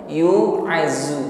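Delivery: "yu'azu" with a sibilant z; "yu'azu" with thin z instead of zha; hissing z, wrong. Shown as a demonstration. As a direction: buzz the z in "yu'azu" as a mistake. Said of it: "tidak diiringi dengan bunyi desis, bukan".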